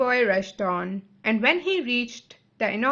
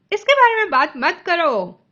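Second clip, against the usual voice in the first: louder, higher half-crying wail; tearful plea; 6 semitones higher, 7 dB louder than usual. A narrator's reading. Grieving mother begging her husband to stop, tearful. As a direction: beg through near tears. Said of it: "गम में ... थोड़ा रोने की तरीके से".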